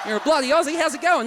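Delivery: high-pitched, hammed-up Australian twang; broad Aussie accent. An Aussie greeting a mate, in a high broad Australian accent. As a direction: talk Aussie out of the side of your neck. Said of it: "they talk through the side of their neck".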